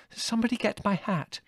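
high-pitched, flustered plea; flustered woman out of breath; panting. A narrator's reading. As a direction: pant it out, appealing for help. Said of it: "panted Mother".

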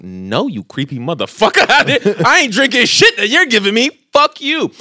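high, loud comic indignation breaking into laughter; hammed-up refusal, pitch shooting way up; mock outrage. Retold defiant refusal to tutor.

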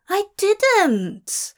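high, loud, indignant protest; offended cry. A narrator's reading. Angel accused of flinging demon, offended cry. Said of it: "Aziraphale cried, offended".

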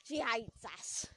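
slow southern-accent take of She hates us; playful southern drawl demo. Shown as a demonstration. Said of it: "it's actually a southern accent".

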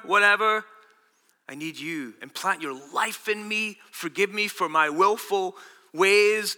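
slow, earnest plea to God, softening mid-way; sincere prayer. Shown as a demonstration. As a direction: pray it slowly from the heart. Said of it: "You say".

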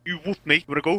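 high-pitched fake British challenge; badly faked British lad picking a fight; mock British. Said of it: "British and screaming".

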